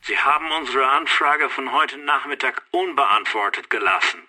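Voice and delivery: caller heard down a phone line; thin, band-limited military phone call; telephone voice. Acted. Canadian caller confronts the Germans over an unanswered request, telephone voice. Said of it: "den Hörer von der Gabel nehme".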